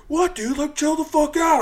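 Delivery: high whiny mock of the creep; mocking dumb guy. Bouncer mocking the creepy guy's reply, high and whiny. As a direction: squeak it like a clueless jerk.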